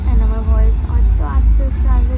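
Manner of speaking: hoarse, worn-out voice. Real, not acted. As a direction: talk through a hoarse throat. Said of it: "আমার গলা ভেঙে গেছে".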